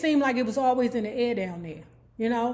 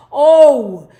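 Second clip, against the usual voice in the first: delighted oh; 3 semitones higher, 14 dB louder than usual. Real, not acted. Recalling Haynes Point fondly.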